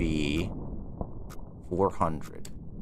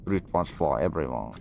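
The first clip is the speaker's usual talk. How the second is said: mock announcer; 7 semitones lower, 3 dB quieter than usual.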